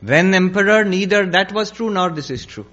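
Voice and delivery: emphatic, ringing conclusion; sage's pronouncement. Acted. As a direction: proclaim the verdict to the emperor. Sage gives his verdict.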